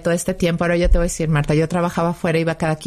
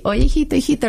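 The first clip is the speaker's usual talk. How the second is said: calling out; 8 semitones higher than usual. Retold or imitated. Mother calling for her missing son, anxious high call.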